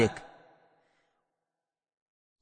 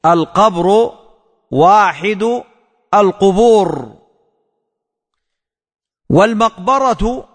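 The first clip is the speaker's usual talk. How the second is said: word-by-word dictation. Shown as a demonstration. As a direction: say each word alone with a pause after it. (إملاء كلمة كلمة مع وقفة بعد كل كلمة)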